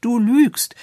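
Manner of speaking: put-on high, sharp child's accusation; bitterly indignant. A narrator's reading. Little girl accusing the doctor of lying, embittered. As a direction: cry it out in passionate bitterness. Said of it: "rief die Kleine in leidenschaftlicher Erbitterung".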